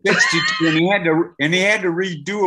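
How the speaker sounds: real astonishment at the number; incredulous outburst. Real, not acted. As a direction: blurt it out in disbelief. Amazed at sixty-two hours.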